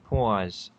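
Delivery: "Pause" imitated with a New York open vowel; mock New York "Pause"; mimicking New York pause. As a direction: echo "Pause" the way the friend says it. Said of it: "You say pause funny".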